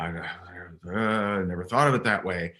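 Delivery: retold breathless stammer on the opening word; halting, mildly acted gasping start; mock hyperventilating. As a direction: lightly imitate someone hyperventilating through tears. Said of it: "she's, like, hyperventilating".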